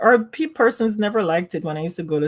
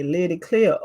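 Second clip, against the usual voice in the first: polite greeting. Shown as a demonstration. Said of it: "like that".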